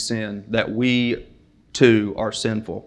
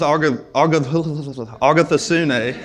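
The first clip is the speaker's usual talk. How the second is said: laughing stumble; 4 semitones higher, slower than usual. Real, not acted. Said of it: "that's a tough one".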